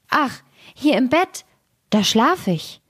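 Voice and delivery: a tiny ghostly voice answering from the bed; blood drop calling. A narrator's reading. The third blood drop answers the witch, high and eerie. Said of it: "rief der dritte Blutstropfen".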